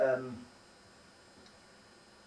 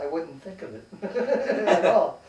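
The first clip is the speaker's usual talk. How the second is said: high, loud laugh through the words; 6 semitones higher, 8 dB louder, slower than usual. Real, not acted. Retelling a comeback to someone rejecting logic, laughing. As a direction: break up laughing mid-sentence.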